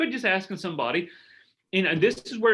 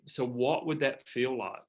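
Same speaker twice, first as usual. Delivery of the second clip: gentle coaching question; 3 semitones lower, 4 dB quieter, slower than usual. Shown as a demonstration. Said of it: "you heard me use a lot of".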